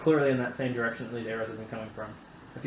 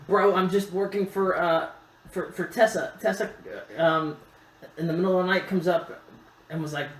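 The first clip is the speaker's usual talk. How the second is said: bro dude voice; 4 semitones higher than usual. Acted. GM voices NPC gnome story.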